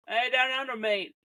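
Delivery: jokey attempt at an Australian accent; bad Australian accent. Calling out to Australian listeners, bad Australian accent. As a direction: put on a poor Australian accent. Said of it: "this is a real bad Australian accent".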